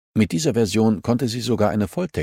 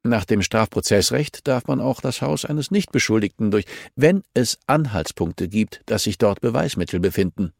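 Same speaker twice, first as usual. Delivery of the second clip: a lightly voiced official, raised pitch, firm; stern official; 3 semitones higher than usual. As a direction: lecture her on the law, measured. (leicht gespielter strenger Beamter)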